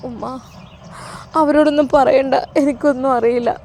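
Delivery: acted tearful plea, haltingly. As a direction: plead with Mother through mild tears. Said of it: "കരഞ്ഞുകൊണ്ട് അവൾക്ക് ഒന്നും". (കരഞ്ഞുകൊണ്ട് അപേക്ഷിക്കുന്നു)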